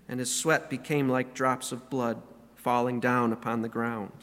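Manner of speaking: scripture reading. Acted. Reads Luke passage aloud.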